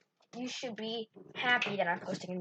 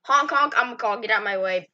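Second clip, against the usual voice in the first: car impression; 8 dB louder than usual. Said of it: "my impression of a car".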